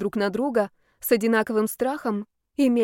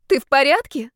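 loud, higher shout in her face; yelling; 5 semitones higher, 7 dB louder than usual. A narrator's reading. Yaroslav shaking her by the shoulders, yelling loud and high. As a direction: bellow it right at her. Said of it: "заорал ей в лицо Ярослав".

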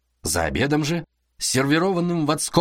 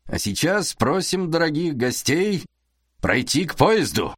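booming stage introduction; 4 semitones higher than usual. Acted. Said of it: "продекламировал он".

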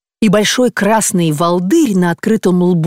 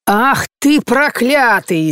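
slow, drawn-out angry yell; furious cry; 5 semitones higher, much slower than usual. A narrator's reading. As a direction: curse him in a rage. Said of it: "закричала Марфа Петровна". (разгневанный крик)

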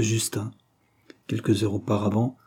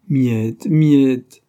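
imploring; 3 semitones higher, 8 dB louder than usual. A narrator's reading. Silver begs the girl to stop cursing herself, imploring. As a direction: implore with rising force on the repeat. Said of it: "implora Silver".

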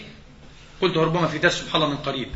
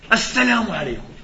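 higher, slightly louder call of greeting; raised-voice greeting; 5 semitones higher, 4 dB louder than usual. Acted. Deaf man rehearses greeting his sick neighbour, raised voice. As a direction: greet as if to someone hard of hearing. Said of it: "وأقول له بصوت مرتفع".

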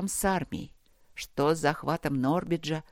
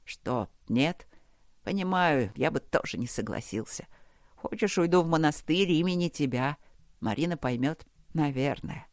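delirious half-prayer; 2 semitones lower than usual. Acted. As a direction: talk to the dark, half mad and exhausted. Delirious bargaining with darkness. (бредовая полумолитва, тихо и устало)

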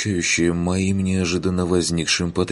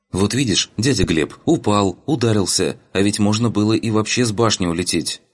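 lightly voiced girl, higher; reproachful girl; 4 semitones higher than usual. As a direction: chide him with a touch of reproach. (слегка укоризненный девичий голос)

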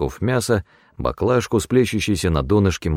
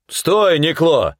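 growl; 10 semitones higher, 3 dB louder, much slower than usual. A narrator's reading. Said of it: "зарычал старший".

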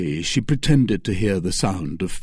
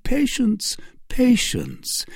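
whispering; 13 semitones higher, slower than usual. Acted. Baron's menacing aside.

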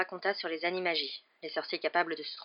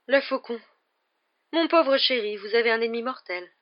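higher-pitched fortune-teller pronouncing doom; ominous seer; 5 semitones higher, 7 dB louder than usual. Acted. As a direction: announce the bad omen dramatically, pitched up. Seer reads doom in the cup.

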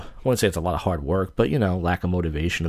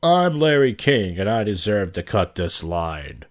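Larry King; slower than usual. Acted. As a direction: lightly parody a TV host, drawing it out. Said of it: "Does he sound like Larry King?".

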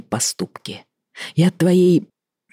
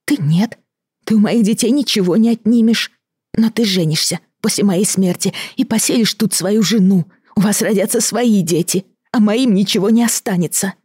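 a touch of tears, pitched higher; tearful; 7 semitones higher than usual. Acted. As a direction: plead through rising tears. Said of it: "заливаясь слезами, прошептала Даша". (со слезами, на высоких тонах)

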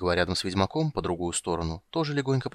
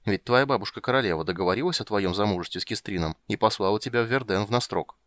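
ordinary delivery, nothing marked

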